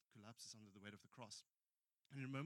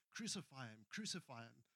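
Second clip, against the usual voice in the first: mock shout, louder but contained; raised voice, imitating a loud cry; retold crowd shout; 5 dB louder than usual. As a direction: call it out like someone in a mob. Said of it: "hears someone cre-, uh, shout out very loudly".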